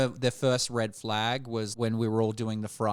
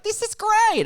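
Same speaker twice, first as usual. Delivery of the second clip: high fake cheer; 4 dB louder, slower than usual. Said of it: "presenting really well of like".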